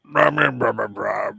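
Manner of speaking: talking through a mouthful; garbled words with a full mouth. Pretend. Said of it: "Don't talk with your mouth full".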